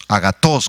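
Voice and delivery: agatos stressed on the final O; accent the last syllable of "agatos"; Greek pronunciation. Shown as a demonstration. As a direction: say "agatos" as a-ga-TOS. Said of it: "con T H y acento en la O".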